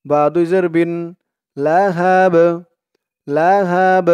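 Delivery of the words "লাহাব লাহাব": "লাহাব" with a bouncing final b; qalqala. Shown as a demonstration. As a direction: recite "লাহাব", pushing out the b with a small echo. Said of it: "একটু ধাক্কা দিয়ে পড়তে হবে". ("লাহাব"-এর বা-তে ধাক্কা দিয়ে কলকলা)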